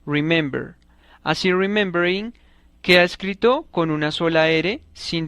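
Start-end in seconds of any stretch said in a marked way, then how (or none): 0.1-0.8 remember with the middle syllable stressed; stress on second syllable. Shown as a demonstration. Teacher showing the accent is not last in remember, middle-syllable stress. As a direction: say remember as re-MEM-ber. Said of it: "sino en la segunda sílaba".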